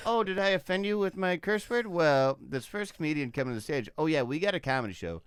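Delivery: a hint of a strip club DJ; mock cheesy DJ. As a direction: poke fun at a try-hard DJ hyping the act. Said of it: "trying to be as cool as he could possibly be".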